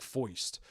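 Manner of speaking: FOIST with "oi" in place of "ir"; old-timey New York pronunciation. Shown as a demonstration. Podcaster giving an example of the Penguin's dialect, old-timey New York pronunciation. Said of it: "for example, the word, like, foist".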